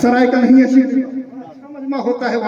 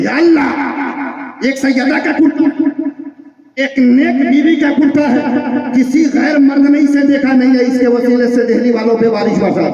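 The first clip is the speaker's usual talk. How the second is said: fervent prayer; 4 semitones higher than usual. Retold or imitated. Saint prays for rain before the crowd, high and fervent. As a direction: cry out to heaven.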